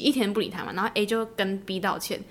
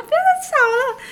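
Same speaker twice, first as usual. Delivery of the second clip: retold inner shout; 7 dB louder, slower than usual. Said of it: "我就想说".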